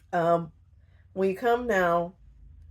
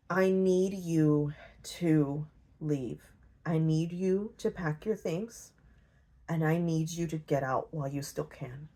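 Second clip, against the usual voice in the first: grave warning; 3 semitones lower, 5 dB quieter than usual. Retold or imitated. Francis warns her to leave.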